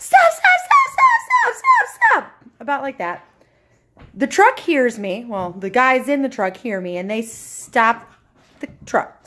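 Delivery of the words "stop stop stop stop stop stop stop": very high, shrill, top-of-the-register yell. Retelling yelling at a truck to stop, reenacting a high-pitched yell. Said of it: "I start yelling at the top of my register".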